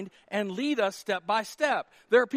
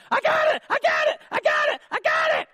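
put-on high, loud, eager shout of a know-it-all kid; pushy classroom know-it-all yelling the answer; 7 dB louder than usual. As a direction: wave your hand and shout to be picked. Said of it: "the little Johnny over there".

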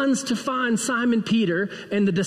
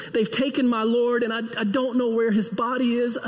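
higher, mildly tearful voice; imitated crying; 4 semitones higher than usual. Weeping Mary answers the angels at the tomb, mildly acted tearfulness. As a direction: act a touch of weeping distress. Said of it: "and she's crying".

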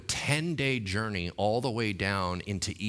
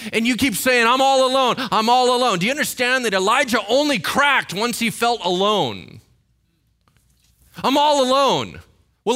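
high, loud impassioned preaching; full-force preaching; 13 semitones higher, 9 dB louder than usual. Acted. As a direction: drive it home to the congregation.

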